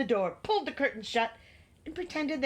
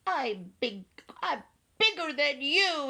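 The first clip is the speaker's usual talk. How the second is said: little monster boast; 6 semitones higher than usual. A narrator's reading.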